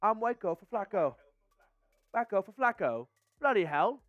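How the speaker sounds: mock British accent, lightly done. Shown as a demonstration. Obliging chat's request, a mild mock British accent. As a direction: ham up a British accent, bloody hell and all. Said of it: "hopefully that accent was not awful".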